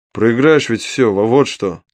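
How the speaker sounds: slow, heated outburst. Acted. Hero snaps at the imp losing chips, heated. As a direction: blurt it out in exasperation. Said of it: "в сердцах высказался я".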